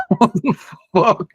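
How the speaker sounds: high-pitched, laughing incredulity; laughing disbelief. Real, not acted. Streamer stumbles on an absurd forgotten link, laughing in disbelief. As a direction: laugh through the swear in disbelief.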